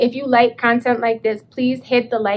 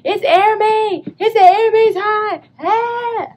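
higher, louder breathless gush; excited retelling; 7 semitones higher, 5 dB louder than usual. Retold or imitated. Calling friend Teresa late, gushing excitedly. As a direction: pour it out to a friend. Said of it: "I was like".

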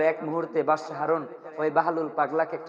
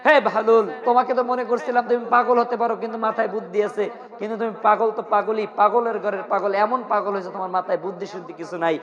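mildly indignant rebuke, pitched up; retold scolding; 3 semitones higher than usual. King telling off Bahlul for foolish questions, mock scolding. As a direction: give an acted telling-off, mostly raised in pitch. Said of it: "ধমক দিয়ে বলতেছেন".

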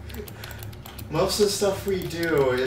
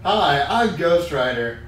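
louder gravel-free Ghost Rider growl; 5 dB louder than usual. Acted. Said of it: "You sound like Ghost Rider".

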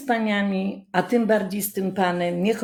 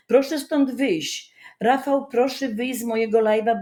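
stern order; 5 semitones higher than usual. Real, not acted. Throwing Rafał off her live stream.

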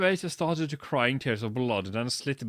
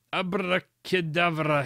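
mild mock yell; 5 semitones higher, slower than usual. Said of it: "he yelled at Snap".

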